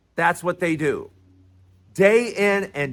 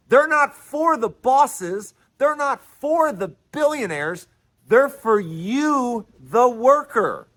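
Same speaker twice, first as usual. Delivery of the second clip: deliberately slow; 3 semitones higher than usual. Real, not acted. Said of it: "I have to talk slow".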